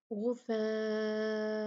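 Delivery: slow गुफ़ाअन with a clear an, no nasal stretch; clear nun. Shown as a demonstration. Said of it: "अन पढ़ देंगे".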